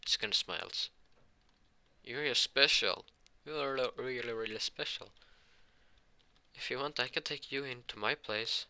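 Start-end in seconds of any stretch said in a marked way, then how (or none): 2.0-8.7 higher-pitched, kindly reassurance; nice mentor voice, raised in pitch; kinda nice. Acted. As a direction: gently encourage a child, pitch lifted. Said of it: "kinda nice".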